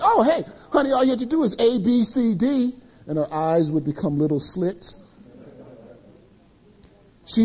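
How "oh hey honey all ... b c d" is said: mock fix-it husband. Mocking Mister Fix-It husband.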